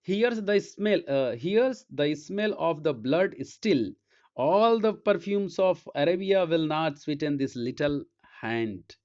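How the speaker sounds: slow, weighty reading of a Shakespeare line; slow theatrical reading of Lady Macbeth's words; dramatic recitation. Acted. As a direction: draw the verse out slowly like a stage speech.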